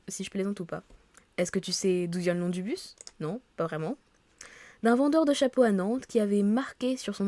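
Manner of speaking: lively read-aloud of story dialogue; reading game dialogue aloud. Acted. Office colleagues agreeing on the park for welcome drinks, animated read-aloud. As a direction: read the characters' lines clearly, a little animated.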